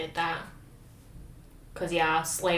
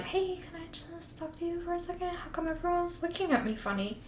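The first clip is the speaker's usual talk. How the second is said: hushed Rand; 10 semitones higher, 8 dB quieter than usual. Retold or imitated. Rand voiced pulling Dylan aside.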